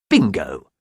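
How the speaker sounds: gloating, punched exclamation; triumphant. A narrator's reading. Schemer hangs up on her victim, triumphant. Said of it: "with a triumphant smile".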